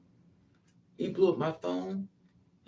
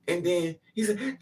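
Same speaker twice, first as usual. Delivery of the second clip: ordinary talk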